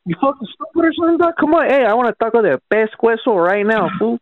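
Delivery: mock anger. Prank caller feigns anger at clerk.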